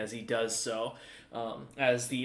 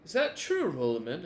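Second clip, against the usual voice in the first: menacing warlord; 4 semitones higher than usual. Acted. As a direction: threaten with cheerful relish. Warlord questions Rolliman.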